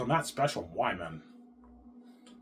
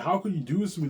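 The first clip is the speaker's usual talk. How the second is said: raised-pitch mock indignation; pissed-off wife; 7 semitones higher, 4 dB louder than usual. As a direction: imitate a wronged, angry wife. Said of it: "then she's pissed off".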